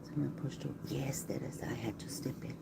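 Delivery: soft unvoiced whisper; hushed asides to the live chat. Real, not acted. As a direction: keep it down to a whisper, barely there. Whispering during a live story.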